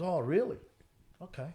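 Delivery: lightly imitated mum's accent, lifting on REALLY; mum's thick accent. Mum answers her nephew's warning, lightly accented. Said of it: "pretty thick accent".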